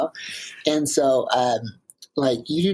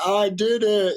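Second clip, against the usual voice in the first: higher, brighter victory shout, lightly played; triumphant cry; 7 semitones higher than usual. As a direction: relive the summit like Rocky Balboa. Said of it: "a Rocky Balboa moment".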